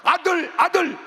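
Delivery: high shouted 아들, 아들; a parent wishing for a son, shouting high; longing cry. Retold or imitated. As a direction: call out for a son, mock yearning. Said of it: "섭섭하다, 그 말이요".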